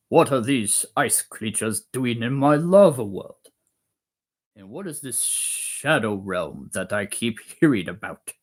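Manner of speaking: lightly voiced booming dragon; lava dragon. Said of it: "The lava dragon, the big boss".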